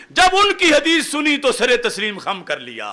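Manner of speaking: usual speaking voice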